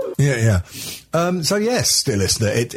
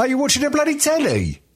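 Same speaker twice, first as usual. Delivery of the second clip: surprised; 14 semitones higher than usual. Real, not acted. Startled by TV noise.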